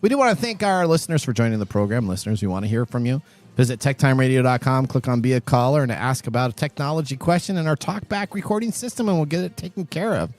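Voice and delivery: host's upbeat outro read; radio sign-off. Acted. Host thanks listeners on air, upbeat sign-off read. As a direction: wrap up the show like a radio host.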